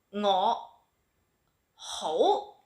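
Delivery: ordinary delivery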